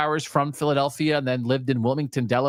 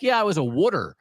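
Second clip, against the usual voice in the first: put-on Philly accent; 3 semitones higher than usual. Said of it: "He's like".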